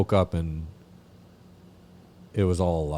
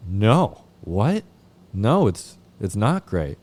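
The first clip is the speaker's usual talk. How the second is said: incredulous protest; 3 semitones higher, 4 dB louder, much slower than usual. Retold or imitated. Protesting the sponsor's reply.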